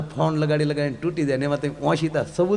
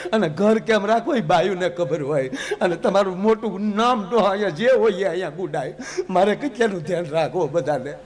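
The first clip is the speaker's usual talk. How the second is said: complaining wife. Retold or imitated. Parvati complaining about husband.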